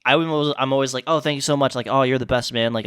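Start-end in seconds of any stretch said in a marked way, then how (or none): 1.1-1.8 customer service voice. Retold or imitated. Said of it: "customer service voice". 1.9-2.7 customer service voice. Retold or imitated. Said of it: "customer service voice".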